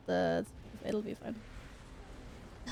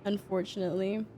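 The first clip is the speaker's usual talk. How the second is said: rusty voice after a week sick; rusty unused voice. Real, not acted. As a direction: talk through a rusty, recovering throat. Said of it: "Voice sounds a little rusty".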